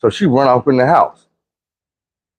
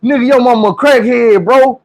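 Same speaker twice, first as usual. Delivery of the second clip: high-pitched mock-crying complaint; hammed-up tearful outrage; tearful kid accusation; 11 semitones higher than usual. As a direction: wail it like a cheated kid about to cry. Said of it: "She about to cry".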